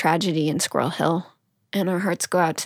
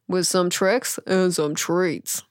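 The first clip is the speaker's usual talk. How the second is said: spooky voice; much slower than usual. Pretend. Halloween intro, tricks and treats.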